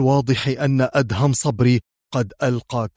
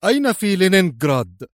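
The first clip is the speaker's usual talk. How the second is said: raised, hard-edged demand; harsh questioning; 5 semitones higher, faster than usual. A narrator's reading. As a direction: demand the exact place without mercy. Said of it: "سأله أدهم في قسوة أكثر". (سؤال بقسوة)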